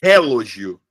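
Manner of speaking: "relógio" with the first syllable punched, RE-lo-gio; stress moved to first syllable. Shown as a demonstration. Teacher shifts the accent for students, stress moved to first syllable. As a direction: hit the RE of "relógio", then fall away. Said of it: "se eu mudar o local do".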